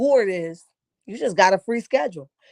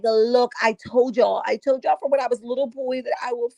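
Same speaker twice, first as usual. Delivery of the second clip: imitating Quicksilver. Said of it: "and he's like".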